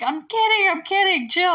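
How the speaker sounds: high, loud hasty protest; mock urgent backtracking. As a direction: quickly call off the prank. Acted hasty backtracking after scream.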